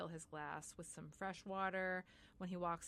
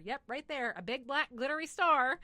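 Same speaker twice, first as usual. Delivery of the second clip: higher, louder, building to the last word; emphatic enthusiasm; 7 semitones higher, 10 dB louder than usual. Retold or imitated. Pointing out where the star goes, emphatic. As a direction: point it out with loud relish.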